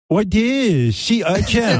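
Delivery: high, drawn-out baffled question; mock-naive high singsong; Chinny impression. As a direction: stretch it out high, totally puzzled. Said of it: "and he's like".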